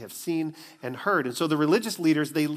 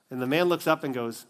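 normal talking voice

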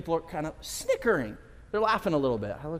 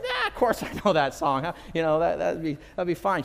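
put-on cocky teen. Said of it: "arrogant teenage boy".

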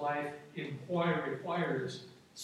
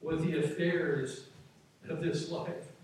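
scripture reading; slower than usual. Acted. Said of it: "It says".

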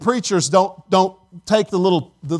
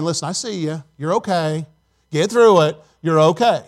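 God reassuring; 5 semitones lower than usual. Acted. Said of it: "God's saying".

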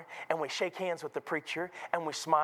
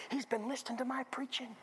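hushed, awed whisper to himself; delighted private whisper; whispered thought; 7 semitones higher, 6 dB quieter than usual. Retold or imitated. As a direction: marvel under your breath. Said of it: "thought to myself".

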